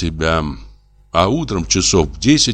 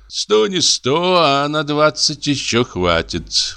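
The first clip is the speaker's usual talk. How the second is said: consoling; 8 semitones higher, slower than usual. A narrator's reading. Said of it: "утешал Хоботов".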